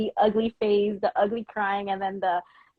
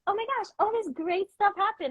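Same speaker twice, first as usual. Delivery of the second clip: higher, excited retelling; mock gushing; 11 semitones higher than usual. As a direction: gush like bursting with news. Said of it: "just be like".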